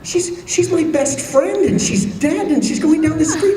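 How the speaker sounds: high-pitched wail, imitating a sobbing woman; squeaky pretend blubbering; mock sobbing. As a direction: act out tearful grief, hammed up for comedy. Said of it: "sees that she's sobbing".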